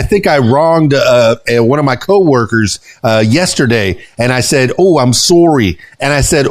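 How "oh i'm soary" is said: slipping into Canadian "sorry" with a long O; Canadian accent. Retold or imitated. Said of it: "I just went Canadian there".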